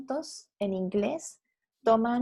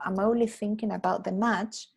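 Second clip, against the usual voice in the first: slow careful model sentence; teacher modelling the fix; corrected sentence, slow; slower than usual. Shown as a demonstration. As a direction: spell out the right version slowly. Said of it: "tendría que haber sido algo como".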